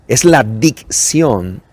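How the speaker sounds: slow, every syllable clear; slow careful diction. Shown as a demonstration. Teacher to students, slow clear diction. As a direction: lay out each sound of la dicción slowly. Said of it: "Dicción es pronunciar bien las palabras".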